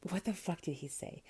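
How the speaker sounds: muttering under her breath while scrolling; whispered to herself. Real, not acted. Scrolling her phone for his text, whispering. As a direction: whisper it to yourself.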